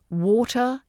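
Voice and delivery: water as 'WAW-tuh', R dropped; British water with a clear T; RP pronunciation. Shown as a demonstration. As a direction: end water on a schwa. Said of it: "drop that R at the end".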